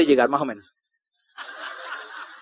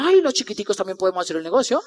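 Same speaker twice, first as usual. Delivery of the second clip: retold realization; 4 semitones lower, 7 dB quieter than usual. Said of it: "lo vi desde lejos y dije".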